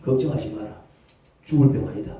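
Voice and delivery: low, calm reassurance; calm a fearful child; God reassuring. Acted. God calming a frightened believer in a low, steady voice. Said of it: "이 말씀을".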